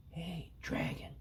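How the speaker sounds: very soft, slow whisper; testing if he's asleep, softly. Acted. Princess whispering to the sleeping dragon. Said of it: "whispered very softly".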